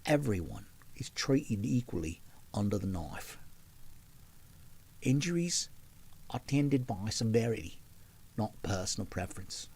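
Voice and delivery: lightly voiced Cockney lass, the Eliza Doolittle way. Reading a viewer's text in a Cockney accent. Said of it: "that's as close as I can get to Eliza Doolittle".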